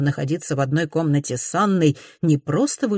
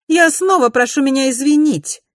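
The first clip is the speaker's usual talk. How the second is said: high, loud, cold cutting in; cold interruption; 10 semitones higher, 7 dB louder than usual. A narrator's reading. Mrs Glenorm interrupts.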